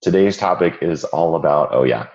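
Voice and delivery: hoarse, croaky voice from a cold; frog voice. Real, not acted. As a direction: talk through a croaky throat. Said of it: "you'll have to forgive my frog voice".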